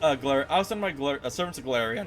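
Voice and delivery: menacing threat, lightly voiced; a hint of a furious demon lord; angry villain boss. Reads boss threat lines.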